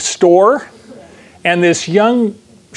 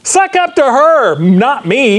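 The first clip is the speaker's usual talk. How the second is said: first words much higher, a quick mock voice; Richard Gere; 7 semitones higher, slower than usual. Retelling a Pretty Woman scene to the congregation, mock customer voice. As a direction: toss off the line as a smug rich customer. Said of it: "Gere goes".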